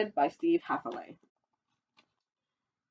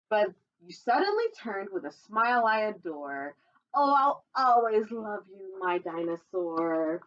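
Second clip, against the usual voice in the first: put-on reading to children; 2 semitones higher than usual. Reading a dinosaur picture book to children, sing-song storytelling voice. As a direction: read the rhyme brightly to little listeners.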